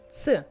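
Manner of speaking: "ц" as one fused ts sound; one joined "ts" for "ц"; ц as in pizza. Shown as a demonstration. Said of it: "like in pizza".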